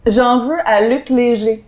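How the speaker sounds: slow, measured recitation; poem read aloud, unhurried; literary reading. Acted. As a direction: read it out slowly, line by line. Reads an extract aloud.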